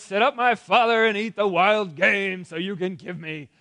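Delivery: loud, eager son's greeting; cheerful. Acted. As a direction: call out brightly to your father, drawing out the end. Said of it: "he walks in all cheerful".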